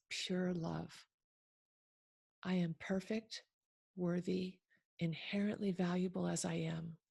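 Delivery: measured recitation with pauses between phrases; unhurried, evenly weighted read-aloud; affirmation reading. Acted. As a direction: read each affirmation deliberately, letting it settle. Reads affirmations aloud slowly for listeners.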